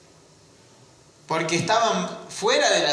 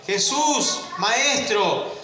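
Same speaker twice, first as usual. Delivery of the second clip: higher-pitched plea, calling from afar without shouting; imitated distant cry; 7 semitones higher, slower than usual. Lepers calling to Jesus from afar, restrained imitated cry. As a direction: imitate lepers crying out for mercy. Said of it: "gritaron porque estaban lejos".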